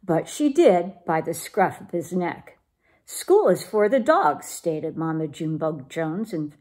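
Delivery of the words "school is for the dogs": firm, mildly emphatic motherly pronouncement. A narrator's reading. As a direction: lay down the rule with some emphasis.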